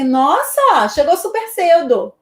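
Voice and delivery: mildly sarcastic greeting; a light touch of irony in the voice; ironic. Shown as a demonstration. Teacher greeting a late student in class, mildly ironic. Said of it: "Eu tô sendo irônica".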